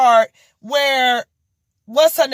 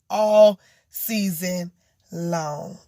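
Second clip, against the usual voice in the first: tired, drawn-out trailing finish; weary and fed up; 6 semitones lower, much slower than usual. Real, not acted. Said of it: "That's how tired I am".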